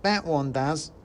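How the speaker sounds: a hint of a tiny soldier; mouse soldier. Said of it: "said the soldier".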